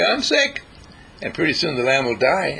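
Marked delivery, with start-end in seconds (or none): 0.0-0.6 much higher, small lamb's plaintive voice; lamb's bleating voice. Retold or imitated. The lamb answers its owner in a high bleat. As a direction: bleat it like a sick little lamb. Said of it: "the lamb will say".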